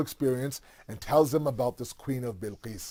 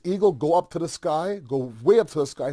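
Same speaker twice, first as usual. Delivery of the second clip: a louder royal command; called command; 3 semitones higher, 5 dB louder than usual. Retold or imitated. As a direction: shout the order up to the sky. King orders eagle to fly.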